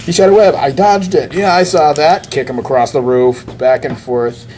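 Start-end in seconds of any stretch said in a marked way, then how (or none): 0.0-2.3 excited play-by-play. Retold or imitated. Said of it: "spider fight".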